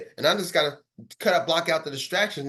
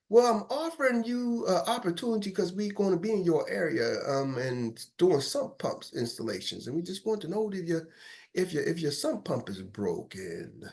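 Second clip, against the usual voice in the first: fading timid pitch; 6 dB quieter than usual. Acted. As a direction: lose all confidence as you go. Caller fading, unsure of himself.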